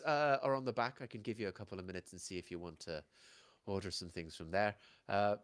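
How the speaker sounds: put-on Irish-accented hostess, busy but polite; Irish barmaid accent. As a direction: excuse yourself in an Irish accent. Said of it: "I don't do Irish".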